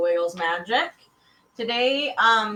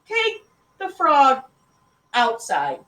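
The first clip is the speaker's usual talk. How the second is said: slow, loud, measured order; firm dad command, starting high and dropping; stern father; 7 semitones higher, 9 dB louder, slower than usual. A narrator's reading. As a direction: lay down the law word by word. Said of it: "Mister Franklin said sternly".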